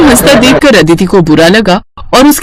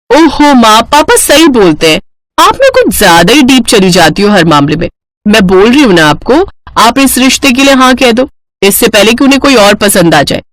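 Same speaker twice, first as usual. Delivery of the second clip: lightly voiced insistent daughter; impatient daughter Aditi. Daughter urges mother to accept the match, impatient. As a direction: push mother to agree.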